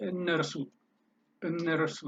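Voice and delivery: እነርሱ with an r sound before the final su; older Amharic variant. Shown as a demonstration. Teacher showing students the old form, እነርሱ said with an r. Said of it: "old Amharic may write".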